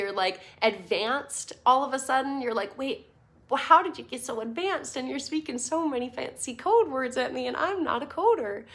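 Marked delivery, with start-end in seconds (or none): 2.8-8.6 put-on a light, half-accidental Minnesota accent. To the class, mimicking a lost newcomer at an NFT event, in a light Minnesota accent. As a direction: slip into a mild Minnesota lilt, confused and a bit overwhelmed. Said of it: "I don't know what that accent was that I just did, but it sounded like I was from Minnesota".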